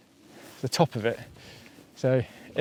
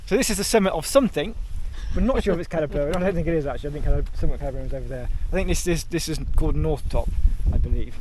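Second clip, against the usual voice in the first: posh voice; faster than usual. Real, not acted. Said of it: "I don't know why I'm speaking in a posh voice".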